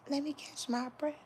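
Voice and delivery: high, breathless sung quote; quoting a singer. Retold or imitated. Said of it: "Beyonce said".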